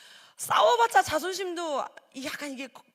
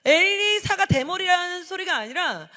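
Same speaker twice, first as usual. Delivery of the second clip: ordinary talk, nothing marked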